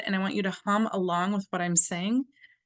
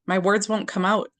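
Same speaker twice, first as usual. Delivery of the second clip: tapping affirmation; 4 dB louder than usual. Shown as a demonstration. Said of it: "Under the eye".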